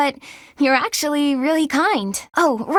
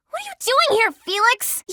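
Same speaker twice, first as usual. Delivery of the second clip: startled question; 8 semitones higher than usual. Acted. Startled by Felix.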